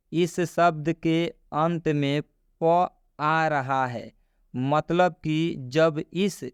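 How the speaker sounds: slow, measured read of a written rule; reading a rule aloud. Shown as a demonstration. Teacher reads the rule on screen to learners, slow read-aloud. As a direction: spell the rule out slowly, phrase by phrase.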